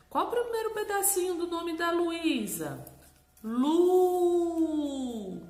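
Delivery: high, loud quizzing and answer; loud high singsong question and cheerful reply; playful quiz. Shown as a demonstration. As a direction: quiz a child in a game. Quizzing child, voicing answer.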